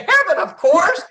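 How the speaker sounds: high and loud, laughing the answer out; laughing punchline. Retold or imitated. Mom telling her son the visitors wanted tickets to heaven, laughing. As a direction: deliver it cracking up.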